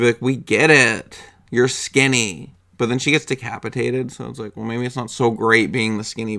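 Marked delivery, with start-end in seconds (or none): 0.2-2.5 louder, drawn-out exasperated retort; mock defensive. Talking back to the girl in the elevator, mock defensive. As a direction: push back with playful defensiveness. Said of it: "I would just get really, like, defensive".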